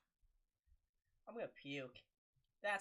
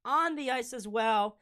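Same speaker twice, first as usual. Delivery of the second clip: brisk, loud hockey play-by-play; live play-by-play; 7 semitones higher, 12 dB louder, slower than usual. Acted. Stream commentator calling the Sabres game live for viewers. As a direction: call the game as it happens. Play-by-play continues after goal.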